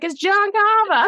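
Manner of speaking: high Boston waitress impression; Boston accent. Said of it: "So Lizzie, the waitress, how she's like".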